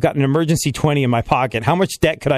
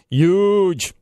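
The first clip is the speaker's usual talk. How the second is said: lightly voiced Trump saying huge; a hint of Trump, drawn out; mild Trump "Huge"; Trump impression; 5 semitones higher than usual. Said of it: "compliment ... for my Trump".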